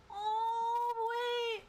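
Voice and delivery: high, loud startled yelp; high excited yelp. Real, not acted. Reader suddenly struck by the words, yelping high.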